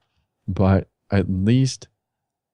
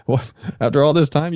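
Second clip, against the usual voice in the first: disbelief; 7 semitones higher than usual. Retold or imitated. Told to just watch job boards, a stunned high what. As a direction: sputter it out in shock. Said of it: "I'm like".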